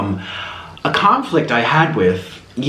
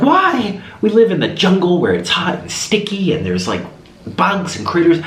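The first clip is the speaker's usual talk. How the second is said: much higher, exasperated complaint; indignant scolding; 6 semitones higher than usual. Retold or imitated. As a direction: tell him off, incredulous. Scolding husband about no poison.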